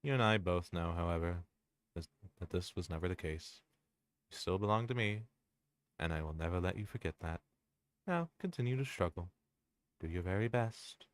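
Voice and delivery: possessive villain. Acted. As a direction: purr every threat as tender devotion. Reads the villain's possessive speech.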